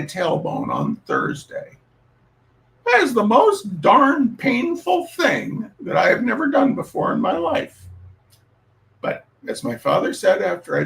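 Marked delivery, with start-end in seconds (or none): 2.9-7.9 loud, higher outburst about the pain; pained exclamation. Real, not acted. Telling listeners about his bruised tailbone, a loud pained outburst. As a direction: blurt it out, still stung by it.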